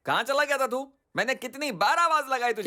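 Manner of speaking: agitated scolding. Acted. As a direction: scold him for leaving you alone. Scolds nephew for leaving him alone.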